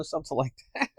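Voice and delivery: ordinary talk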